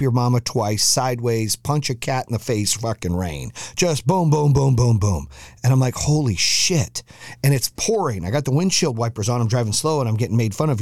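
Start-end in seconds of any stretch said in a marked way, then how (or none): 4.1-5.3 rapid-fire booms falling in pitch; imitated pounding rain. 5.9-7.0 slow, drawn-out disbelief; mock-stunned, half-speed exclamation; stunned awe. Stunned reaction to sudden downpour.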